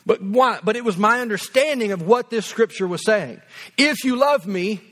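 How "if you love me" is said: mildly stern legalist reading; legalistic. Acted. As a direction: lay down the rule firmly. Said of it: "It's very, very legalistic".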